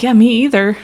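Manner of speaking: dry, sarcastic yeah me either; sarcastic agreement. Retold or imitated. Answering locals who hate New York, sarcastic. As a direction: agree with heavy irony. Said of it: "I'm like".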